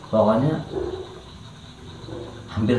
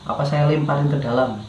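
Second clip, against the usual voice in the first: mild mock menace; 4 semitones higher than usual. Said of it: "saya ada teriakan itu".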